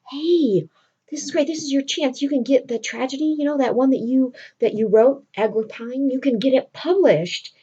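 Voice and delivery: eager urging. Retold or imitated. Friend urging Cyrano to publish his tragedy, eager urging. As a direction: lightly act an encouraging friend.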